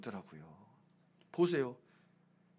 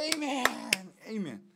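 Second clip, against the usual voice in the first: eager amen; 4 semitones higher, 6 dB quieter than usual. Retold or imitated. Imitates grandmother rising with amen.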